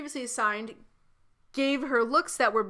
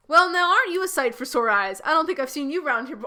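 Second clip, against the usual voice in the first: lightly voiced flirt, louder and higher; creepy man's opening line; 3 semitones higher, 7 dB louder than usual. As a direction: read the creep's line up and loud.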